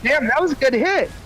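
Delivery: high after a hit; laid-back stoned delivery; stoner. Real, not acted. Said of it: "Sorry, I'm high as fuck right now".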